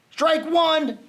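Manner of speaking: a bright umpire call; umpire's yell. A narrator's reading. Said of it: "the umpire yelled".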